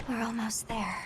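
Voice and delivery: hushed unvoiced whisper. Hunter whispering to companions as they close in, whispered. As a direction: whisper it so nothing hears.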